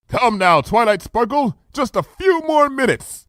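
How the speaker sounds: high regal coaxing; coaxing royal voice. Acted. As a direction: soothe her impatiently. Luna coaxes Twilight.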